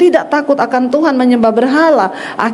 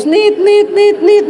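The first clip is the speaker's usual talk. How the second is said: high, clipped imitation of a dial tone beeping; phone hang-up beeps; 7 semitones higher, slower than usual. Pastor imitating the phone going dead after the husband hangs up. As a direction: mimic the dead line after the call drops. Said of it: "Langsung teleponnya putus".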